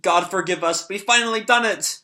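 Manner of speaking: hammed-up terror, high and shrill-voiced; panicked cultists. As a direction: squeal it out in mock panic. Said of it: "the cultists, like, instantly regret their decision".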